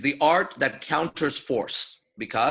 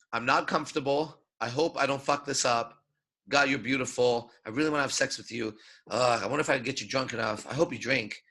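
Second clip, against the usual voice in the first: insecure inner voice; 3 semitones lower, 4 dB quieter than usual. Shown as a demonstration. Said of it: "Your voice says".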